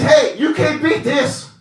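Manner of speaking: loud, high, crowing boast; a vain man bragging loudly about his invitation; gloating Haman. Acted. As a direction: strut and crow like a self-satisfied schemer.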